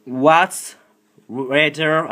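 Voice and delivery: high, loud accented English; loud English to Siri. Real, not acted. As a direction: shout the question at the phone.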